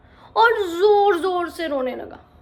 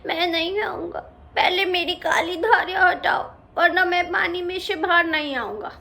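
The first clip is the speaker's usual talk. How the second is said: sulky pout. Acted. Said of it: "मुंह बनाकर बोला".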